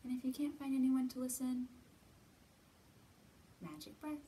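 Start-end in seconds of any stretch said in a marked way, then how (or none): none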